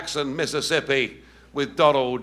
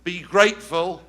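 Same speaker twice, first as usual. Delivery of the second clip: rally cry; 3 semitones higher, 4 dB louder than usual. Real, not acted. Rousing speech finale.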